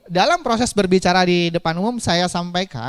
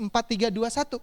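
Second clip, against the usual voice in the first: soft, higher countdown; too soft to hear; 4 semitones higher, 5 dB quieter than usual. Shown as a demonstration. Trainer shows speaking up front inaudibly, soft count. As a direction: count down without projecting. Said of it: "kalau Ibu berbicara di depan pakai intonasi".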